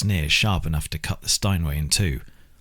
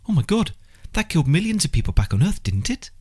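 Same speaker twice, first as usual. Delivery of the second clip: alarmed, much higher pitch; horrified realisation; aghast; 12 semitones higher than usual. Acted. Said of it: "Lucy was aghast".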